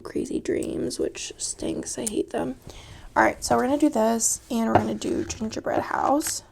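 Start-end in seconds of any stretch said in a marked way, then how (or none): 0.0-2.6 soft whispered aside; whispering. Real, not acted. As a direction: whisper it to yourself. Aside about bad dreams.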